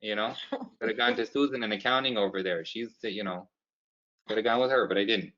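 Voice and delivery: put-on light Canadian accent, upbeat; Canadian boss, pushier. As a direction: sell the Tim's card with folksy cheer. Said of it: "Canadian side".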